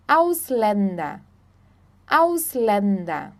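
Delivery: slow Ausländer with ä as e, AUS-len-der; German pronunciation. Shown as a demonstration. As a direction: stretch Ausländer out for learners. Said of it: "o A tremado sempre vai ter som de E".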